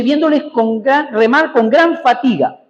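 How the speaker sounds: slow emphatic reading. Shown as a demonstration. Preacher reads verse emphatically.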